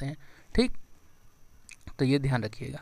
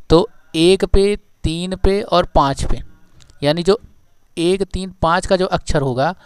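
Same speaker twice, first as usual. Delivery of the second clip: much louder, slowed, driving each point home; loud classroom emphasis, spaced out; loud emphatic teaching; 9 dB louder than usual. Real, not acted. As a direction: hammer the rule into the class. Teacher stressing key rule.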